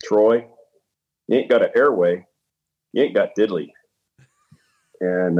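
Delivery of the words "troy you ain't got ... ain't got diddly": imitating a mentor's Southern accent, slightly raised pitch; lightly voiced Southern Citadel graduate, pausing between phrases. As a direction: deliver it as a remembered Southern mentor's pronouncement. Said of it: "in his Southern Citadel graduate accent".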